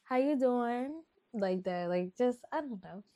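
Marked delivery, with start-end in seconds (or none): 0.0-1.0 higher, louder joking greeting; hammed-up how-are-you; put-on character voice. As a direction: greet a friend in a playful put-on voice. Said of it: "And be like".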